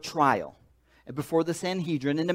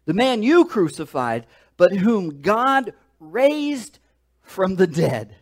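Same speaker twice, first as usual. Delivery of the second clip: bold accusation; 3 semitones higher, 6 dB louder, slower than usual. Acted. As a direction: proclaim it like a fearless apostle. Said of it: "He's getting bold now".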